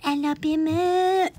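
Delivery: slow, drawn-out take on dad; lightly voiced father, slow; impression of dad. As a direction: stretch the word out like your dad. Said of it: "that was my dad".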